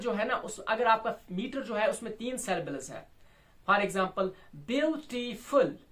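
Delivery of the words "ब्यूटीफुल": ब्यूटीफुल slowly by syllables, weight on ब्यू; ब्यूटीफुल split in three, falling after ब्यू; strong-weak-weak stress. Shown as a demonstration. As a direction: lean on the first beat of ब्यूटीफुल. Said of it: "पहला strong है".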